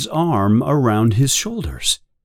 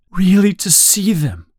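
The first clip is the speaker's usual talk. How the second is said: earnest pained Winston; 8 semitones higher than usual. Acted.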